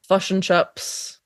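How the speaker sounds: slow, careful New Zealand vowels; New Zealand accent. Shown as a demonstration. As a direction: say it like a Kiwi, drawn out. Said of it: "do a New Zealand accent for me".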